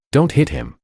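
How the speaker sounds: high, urgent cry; shouting. A narrator's reading. Sister blocking her father, shouting high. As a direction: stop him with your voice. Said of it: "blocking him and shouting".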